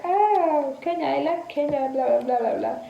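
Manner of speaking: high, excited mock gushing; lightly voiced excited man going on about Kenya; excited friend. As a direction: gush like a delighted stranger. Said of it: "So he was like".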